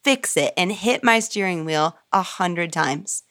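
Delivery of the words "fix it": a light echo of raging at God in the car; retold scream. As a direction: toss it up high like the scream she remembers. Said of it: "or screamed".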